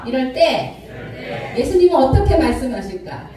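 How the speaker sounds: deliberate recitation to be repeated; call-and-repeat. Shown as a demonstration. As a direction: lead the congregation phrase by phrase. Leading congregation to repeat after speaker.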